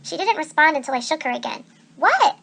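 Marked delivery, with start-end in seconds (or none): 2.0-2.4 annoyed what. A narrator's reading. Annabeth irritated at being shaken.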